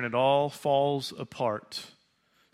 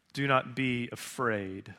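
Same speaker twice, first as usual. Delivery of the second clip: quieter, slower, tender repeat; soft reassurance; 3 semitones lower, 5 dB quieter, slower than usual. Acted. Preacher softly repeating Jesus to the congregation, tender. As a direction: let it settle softly on them.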